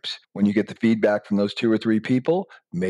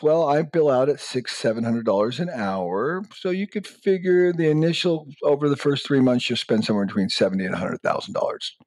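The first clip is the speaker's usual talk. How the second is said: higher, breezy quote of fees; mock lawyer; 5 semitones higher than usual. Lawyer quoting fees to the client, higher and breezy. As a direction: rattle off the bill like a lawyer.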